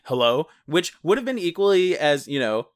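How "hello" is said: louder hello. Shown as a demonstration. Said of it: "it's not like".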